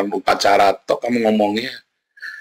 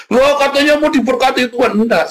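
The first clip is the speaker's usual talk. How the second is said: mock surprise; 5 dB louder than usual. Mock protest of believer.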